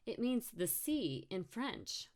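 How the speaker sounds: high, drawn-out superior answer; lofty little explanation; smug know-it-all. Acted. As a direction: show off your French, slow and high. Brooke answers with chin raised.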